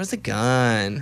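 put-on effeminate, sleep-talking voice. Retelling what they say in their sleep: imitating own effeminate sleep-talking voice. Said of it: "she said I'm totally effeminate while that's happening".

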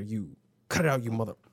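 ordinary delivery

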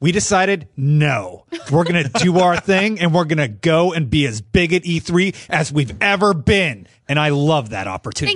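loud, hyped-up, big announcer voice with oomph. Redoing a quote as he said it in the boardroom, do a Phil Spencer impression with more oomph. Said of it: "Should have did that with more oomph".

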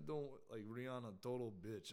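attempted put-on Polish accent. Retelling what a man he did security for said, in a Polish accent. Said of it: "I think I can't do a Polish accent".

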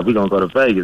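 ordinary talk, nothing marked

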